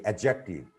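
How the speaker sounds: "adjective" said without the D before J; silent D. Shown as a demonstration. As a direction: drop the D in "adjective", going straight to the J sound. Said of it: "D before J isn't pronounced".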